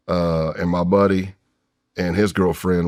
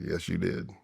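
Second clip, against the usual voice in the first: shaken reply; 11 dB quieter than usual. Retold or imitated. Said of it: "I was like".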